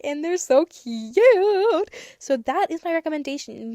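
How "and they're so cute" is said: high, slow squeal of delight; gushing. Real, not acted. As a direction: coo over how cute they are. Gushing over dinosaur stickers.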